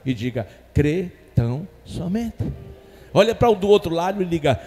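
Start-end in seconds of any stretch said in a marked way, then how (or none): 0.7-2.5 slow, spaced phrase with a rising end; deliberate, separated words; word-by-word prompting. Shown as a demonstration. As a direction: lead the congregation to repeat each word. Models words for congregation to repeat.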